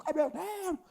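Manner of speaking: mock a theatrical prayer voice; changed prayer voice. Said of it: "mudando a voz". (imitando voz teatral de oração)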